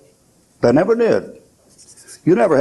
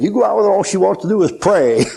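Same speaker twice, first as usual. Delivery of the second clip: laughing punchline; 7 semitones higher than usual. Retold or imitated.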